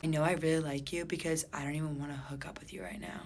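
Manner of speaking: soft whisper; whispered confession. Retold or imitated. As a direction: whisper it intimately. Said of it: "he goes".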